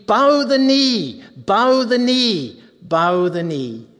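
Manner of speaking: slow, ringing herald's call; slow royal herald cry. Retold or imitated. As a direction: proclaim it like heralds before the chariot. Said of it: "they're saying, verse forty-three".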